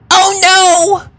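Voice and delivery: high, loud gasp of alarm; a shocked gasp at the empty spot. A narrator's reading. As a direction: gasp it out in sudden panic. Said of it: "gasped Rainbow".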